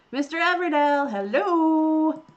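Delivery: loud, high call across a distance. Acted. Young woman calling loudly to Mister Everdell. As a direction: shout his name to get his attention.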